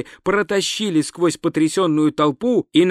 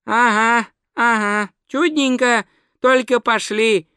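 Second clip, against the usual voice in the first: soothing; 6 semitones higher, slower than usual. Acted. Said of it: "успокаивающе отозвался Два Цветок".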